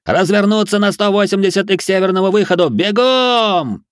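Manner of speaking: high, sustained shouted order; loud commander's shout; commanding yell. A narrator's reading. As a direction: drive the whole crowd with a bellow. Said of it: "заорал он внезапно прорезавшимся командным голосом".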